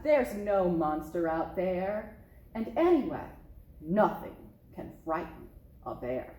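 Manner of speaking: low, assured father bear voice; a dad proving there's nothing to fear; confident papa bear. Acted.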